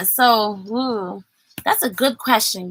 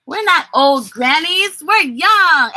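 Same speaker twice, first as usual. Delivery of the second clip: excited; 4 semitones higher, 4 dB louder than usual. Shown as a demonstration. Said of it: "Excitement is like this".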